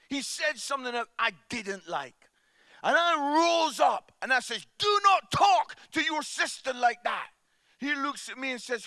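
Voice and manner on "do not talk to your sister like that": retold scolding. Retold dad scolding son.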